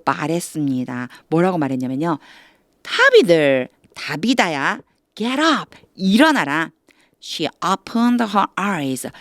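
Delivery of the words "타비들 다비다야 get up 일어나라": lightly acted command to rise; calling to rouse. Acting Peter waking the dead woman. (죽은 이를 깨우듯 부르는 말투)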